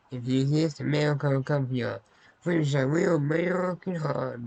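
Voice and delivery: mock-rousing American accent; put-on American accent. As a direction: preach freedom in an exaggerated American accent. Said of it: "why I did that accent".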